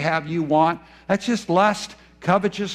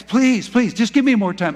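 higher, louder pleading of a desperate debtor; begging debtor; 5 semitones higher, 4 dB louder than usual. Acted. Debtor begging his master for more time, pleading. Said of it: "And he begs".

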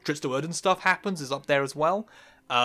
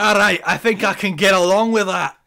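loud, raised-pitch mock Scottish; bad Scottish accent; 5 semitones higher, 8 dB louder than usual. Agreeing to the co-host's bit in a bad Scottish accent. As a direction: play along in a hammed-up Scottish brogue. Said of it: "done in a very bad Scottish accent".

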